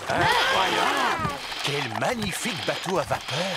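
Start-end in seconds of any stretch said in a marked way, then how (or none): 0.1-1.3 much higher, louder, slow exclamation of wonder; amazed. Acted. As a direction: stretch it out in awe. Amazed at steam boat.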